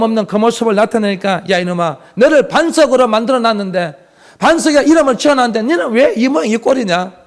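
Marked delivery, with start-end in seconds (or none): 1.5-7.1 mildly acted rebuke, voice barely raised; mock scolding. Jesus imagined rebuking the faithless disciples, mock scolding. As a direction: scold like an exasperated master, understated. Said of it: "이렇게 꾸짖지 아니하시고".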